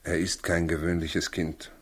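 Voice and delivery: quietly sad, almost whispered. Acted. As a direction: let the weight of it sink in softly. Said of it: "Warum sagst du das so traurig?". (Josef sagt es Maria leise und traurig)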